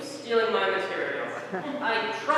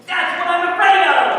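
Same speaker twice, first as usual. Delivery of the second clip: much higher, loud comic alarm; loud mock dread; 9 semitones higher, 10 dB louder than usual. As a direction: blurt it out in mock horror.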